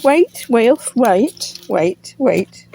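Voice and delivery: calling Wilf to wait; calling a dog. Real, not acted. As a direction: stop the dog, urgent.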